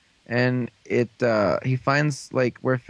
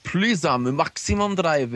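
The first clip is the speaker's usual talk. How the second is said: slow, drawn-out gadget call-out; stretched-out mock announcer voice; imitated device announcement; 3 semitones higher, slower than usual. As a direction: announce it like a transforming belt.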